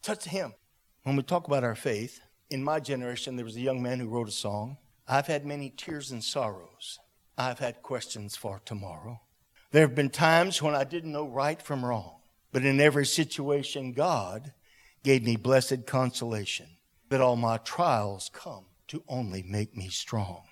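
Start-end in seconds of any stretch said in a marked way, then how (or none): 0.0-0.5 softly imitating a tearful plea; tearful prayer. Grandfather praying for his grandboy, quietly tearful. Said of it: "He's crying, he said". 5.1-20.4 reverent recitation. Acted. Reciting a remembered song's lyrics.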